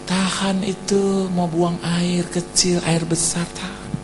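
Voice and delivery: soft, slow, held-back delivery; holding it in. Acted. Listener holds a toilet urge during sermon, soft and slow. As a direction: squeeze the words out quietly.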